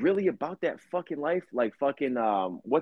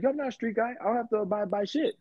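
quoting Charleston White; 8 semitones higher than usual. Retold or imitated. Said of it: "he's like".

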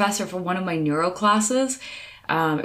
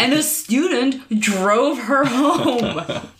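laughing; 5 semitones higher, much slower than usual. Real, not acted. Laughing punchline.

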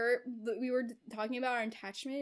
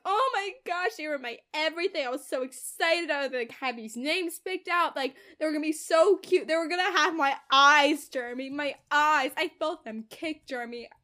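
louder, higher mock wailing; badly faked sorrow; hammed-up fake grief; 3 semitones higher, 8 dB louder than usual. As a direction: overplay the heartbroken mother. Verity faking grief for Jeremy.

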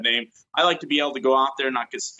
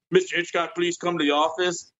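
lightly voiced intercom call; a hint of a tinny intercom page; intercom announcement; 4 semitones higher than usual. Principal paging a student over the intercom, mild mock announcement. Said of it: "like, over the intercom".

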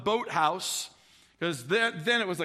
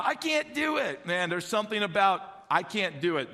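put-on itty bitty boy voice. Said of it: "In that nice little, little itty bitty boy, Jeff Baker, you know, uh, voice".

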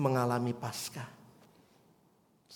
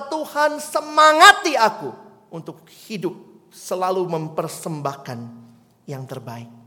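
prayed cry; 3 semitones higher, 8 dB louder than usual. Acted. Preacher voices a prayer quote.

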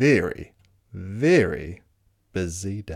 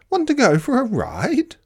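high, loud whinnying question; horse voice; 12 semitones higher, 5 dB louder than usual. Acted. Horse inviting the spider for a ride, high whinny. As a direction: ask it like an eager storybook horse. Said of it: "said the horse".

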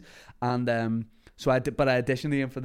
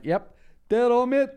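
cocky high chirp; 11 semitones higher, 6 dB louder, slower than usual. Retold or imitated. Cocky retold reply.

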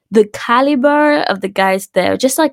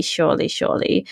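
whispered; 3 semitones lower, 6 dB quieter than usual. Real, not acted. Muttered aside.

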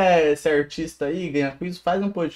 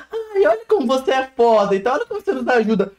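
higher, gushing mock praise; mock Spotify recap; 5 semitones higher than usual. Spotify recap flattering the podcasters, mock gushing. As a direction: imitate a flattering year-end recap, pitched up. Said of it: "aquela retrospectiva do final do ano e fala".

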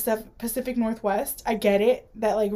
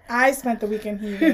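laughing. Real, not acted.

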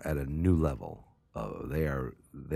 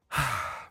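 audible sigh; 9 semitones higher than usual. Real, not acted. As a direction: let out a sigh. Weary sigh before next pick.

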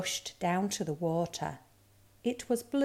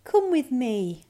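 higher, louder kind invitation; kindly; 5 semitones higher, 6 dB louder than usual. A narrator's reading. Reindeer offers to guide the cub, kindly. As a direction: kindly take charge of a lost cub. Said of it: "said the reindeer kindly".

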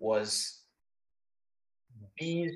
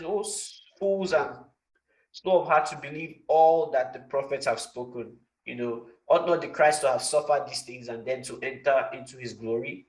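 mild scolding. Retold or imitated. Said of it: "And then Jesus scolds them".

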